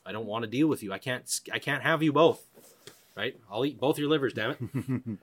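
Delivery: a mild mock yell, threatening the bear; half-hearted retelling of screaming the bear off; retold yelling at bear. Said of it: "I'm yelling at the top of my lungs".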